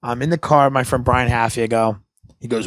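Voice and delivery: ordinary delivery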